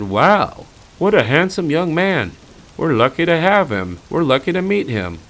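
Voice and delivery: high, mock Canadian Mountie voice; hammed-up Canadian accent, mock praise; bad Canadian accent. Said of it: "I know that was a horrible Canadian accent".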